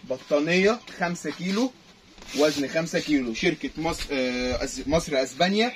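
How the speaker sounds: market hawker calling out prices; arabic street vendor cry. Acted. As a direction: sing out the deal like a stall seller. Vendor hawking blanket deal. (نداء بائع في السوق)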